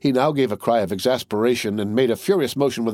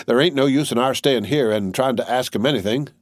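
weary tattered soldier; 4 semitones higher than usual. Acted. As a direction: shrug off the death, then admit he's ailing.

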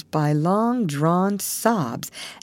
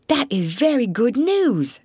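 a hint of gravity, raised and lightly voiced; grave mole; 8 semitones higher than usual. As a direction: say it like a solemn mole. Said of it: "said the mole gravely".

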